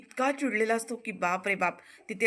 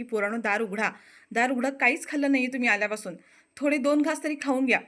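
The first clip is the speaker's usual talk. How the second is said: put-on raised, pleading call to kids behind a shut door; calling through a door; 3 semitones higher, 3 dB louder than usual. Aunt calling the locked-in kids to come eat, pleading loud. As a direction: coax them to open up, voice rising.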